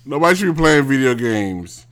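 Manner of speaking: worked-up, insistent tirade; irritated rant. Real, not acted. Angry rant dismissing video games.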